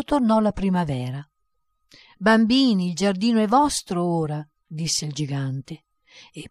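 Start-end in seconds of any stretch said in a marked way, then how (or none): 2.2-4.5 put-on giant calling to the children. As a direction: call out across the garden.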